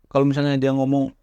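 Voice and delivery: normal talking voice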